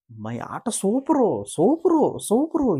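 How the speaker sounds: high, slow sing-song mockery of a braggart; mocking boast. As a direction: stretch each super up high to ridicule it.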